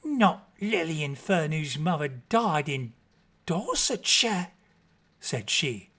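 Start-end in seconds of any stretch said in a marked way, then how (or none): 0.0-4.5 bustling good woman. Acted. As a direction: gush over the bride with New Year cheer. Mrs Chickenstalker shaken by the name.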